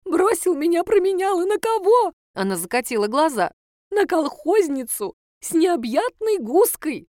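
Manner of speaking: high, loud self-pitying lament; hammed-up wailing mother; theatrical lament. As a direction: wring out every word like a betrayed mother.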